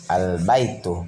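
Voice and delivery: Al-baitu with the l sounded before the b; alif lam pronounced. Shown as a demonstration. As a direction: demonstrate Al-baitu, giving the lam its full sound. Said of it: "alif lamnya dibaca".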